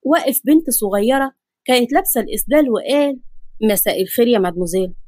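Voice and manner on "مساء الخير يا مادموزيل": lightly voiced gentleman, lower pitch; a hint of a suave stranger; courteous man. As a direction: greet her politely in a lower male voice. Man politely greets a young girl.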